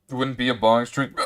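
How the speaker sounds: talking through hiccups. Real, not acted. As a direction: hiccup between words. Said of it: "without the hiccups".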